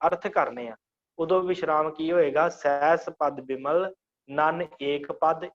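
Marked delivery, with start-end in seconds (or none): 2.5-5.5 slow, stopping after ਪਦ; pause for meaning. Shown as a demonstration. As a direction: halt right at ਪਦ as shown. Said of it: "ਇੱਥੇ ਰੁਕਣਾ". (ਪਦ ਤੇ ਰੁਕ ਕੇ ਹੌਲੀ ਪਾਠ)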